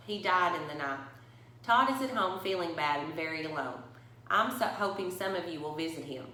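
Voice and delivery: put-on reading a picture book to children; story reading. A narrator's reading. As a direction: tell it to the kids at story time. Reads picture book aloud.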